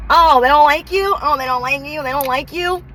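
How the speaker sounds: high, sing-song mock surprise; mocking disbelief. Showing people, mock-surprised they're disliked. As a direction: tease them for not liking you. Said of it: "You guys show people".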